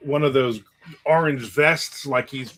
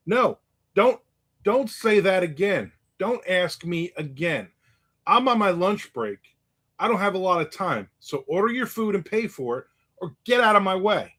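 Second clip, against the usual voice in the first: raised, higher voice, a stern warning; angry warning; 5 semitones higher than usual. Retold or imitated. Big guy on lunch break warns the pest, raised and stern. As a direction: lay down the law, fed up.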